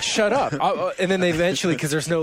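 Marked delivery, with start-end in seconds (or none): 0.0-0.5 mock irritated snap, higher; imitating fed-up players; annoyed players. Imitating annoyed opponents, in a higher mock irritated snap. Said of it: "They're like".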